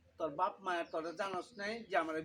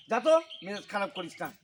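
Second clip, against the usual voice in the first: loud, annoyed dismissal; irritated yelling; 6 dB louder than usual. Acted. Father shooing son away in a bad mood, irritated yell. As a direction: send them off with raised voice. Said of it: "তুমি এত চেঁচামেচি করতেছো".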